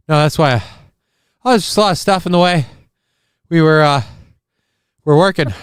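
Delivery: loud, panting, rushed excuse; out of breath. Pretend. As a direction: gasp it out after running. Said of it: "That's why I'm out of breath".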